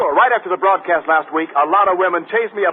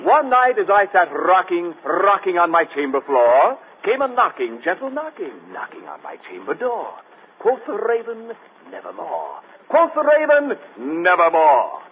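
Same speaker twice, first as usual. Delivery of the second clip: dramatic recitation. Acted. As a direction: recite Poe with mock gravity. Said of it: "I'd like to read a little tidbit".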